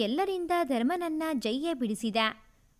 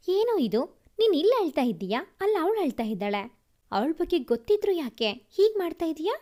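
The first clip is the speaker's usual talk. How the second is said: louder, fast exasperated scolding; 5 dB louder than usual. Acted. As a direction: tell him off, loud and quick. Brother scolds crying brother. (ಜೋರಾಗಿ ಬೈಯುತ್ತಾ ಗದರಿಸುವುದು)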